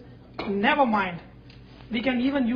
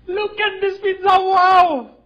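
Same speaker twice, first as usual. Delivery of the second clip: much higher and louder, thrilled; excited; 7 semitones higher, 10 dB louder, slower than usual. Real, not acted. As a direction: burst out with delight at the pizza. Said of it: "Now look at this pizza".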